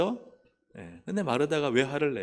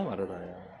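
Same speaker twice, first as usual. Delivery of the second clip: 마르다야 repeated softer and lower, falling away; tender soft repeat; 6 semitones lower, 8 dB quieter, slower than usual. Acted. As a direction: say 마르다야 again quietly, as a tender second call. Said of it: "주께서 대답하여 이르시되". (예수님이 마르다를 다시 부르는 부드럽고 조용한 부름)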